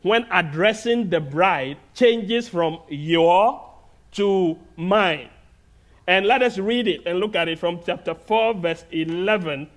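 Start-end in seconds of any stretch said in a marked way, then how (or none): 2.9-3.6 "your" leaned on, a little louder; "your" set apart and stressed. Shown as a demonstration. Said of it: "the husband's emphasis". 4.8-5.3 "mine" given weight; "mine" set apart and stressed. Shown as a demonstration. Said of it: "the husband's emphasis".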